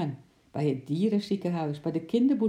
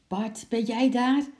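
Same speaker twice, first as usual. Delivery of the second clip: higher, louder call whose hoarse voice cracks; hoarse cracking voice; 7 semitones higher, 5 dB louder than usual. Acted. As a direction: call out and let the hoarse voice break. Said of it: "zijn schorre stem sloeg over".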